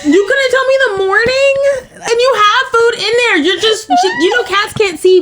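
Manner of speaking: high-pitched, laughing so hard it sounds like crying; cracking up while scolding the cat in retelling. Real, not acted. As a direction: squeal the words through tears of laughter.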